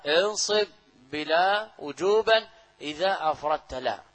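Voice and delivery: drawn-out teacher's recitation of a grammar verse. Shown as a demonstration. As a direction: recite the line deliberately and loudly. Reciting the verse being explained.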